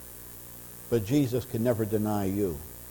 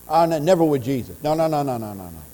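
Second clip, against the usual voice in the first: frantic denial; 2 semitones higher, much faster than usual. Acted. Peter's denial voiced, fading nos.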